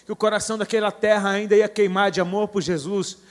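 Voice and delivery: loud, driving preacher's proclamation; fervent prophetic declaration. Retold or imitated. Preacher recounting his declaration over the volcano, proclaiming fervently. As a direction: declare it forcefully, with mounting conviction. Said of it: "Eu comecei a declarar".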